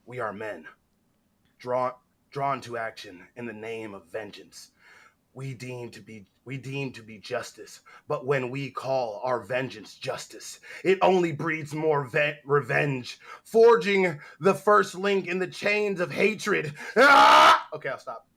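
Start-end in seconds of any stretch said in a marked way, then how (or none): 0.0-16.7 dramatic speech reading. Acted. Reads a meme speech dramatically. 17.0-17.7 loud climactic "Ah!" cry; dramatic yell. Acted.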